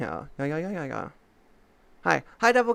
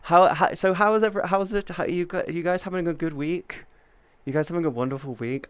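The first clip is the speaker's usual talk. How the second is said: experimental greeting; 3 semitones higher than usual. Shown as a demonstration. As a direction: try out a cute new hello to chat. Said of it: "I'm gonna try an experiment".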